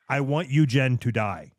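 slow, each word spelled out; over enunciating. Shown as a demonstration. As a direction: say it slow and deliberate, like explaining. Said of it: "I'll say it slower".

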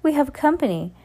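Satan voice. A narrator's reading. Husband coaxing wife.

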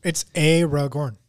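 Aragorn with a long "AY" opening; corrected pronunciation. Shown as a demonstration. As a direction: say "Aragorn" as "AY-ro-gorn". Correcting the name's first letter.

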